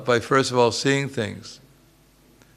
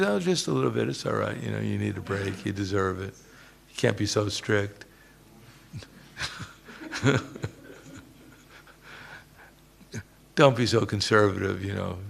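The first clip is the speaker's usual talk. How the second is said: sweet coaxing Maya; 6 dB quieter than usual. Retold or imitated. Speaker voicing Maya gently tempting the devotee, soft sweet coaxing. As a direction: coax gently, like a friend easing you off the path. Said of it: "No, she says".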